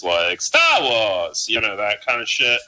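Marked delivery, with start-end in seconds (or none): 0.4-1.5 put-on old-time radio announcer accent, elongated; radio guy voice. Shown as a demonstration. Friend showing the voice for the opening crawl, radio guy voice. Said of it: "like the radio guy voice".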